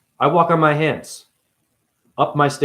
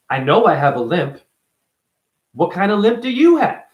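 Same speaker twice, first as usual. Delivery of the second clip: sarcastic retort; 4 semitones higher, 3 dB louder than usual. Retold or imitated. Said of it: "I should wear a shirt that says".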